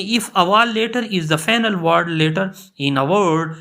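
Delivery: reading the rule out word by word, very slowly; slow dictation. Shown as a demonstration. Teacher to students, reading the rule at dictation pace.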